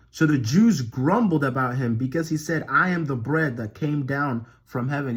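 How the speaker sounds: emphatic Bible reading, stressed key words; scripture reading. Acted. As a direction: proclaim the verses with steady conviction. Reads scripture aloud.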